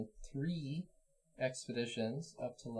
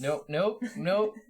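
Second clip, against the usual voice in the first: loud nope; 7 semitones higher, 8 dB louder, much slower than usual. Real, not acted. Refusing the lizard folk loudly.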